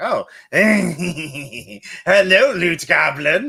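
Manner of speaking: high, very slow character voice. Voicing Plague Goblin greeting the player: Plague Goblin character voice. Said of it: "He's like".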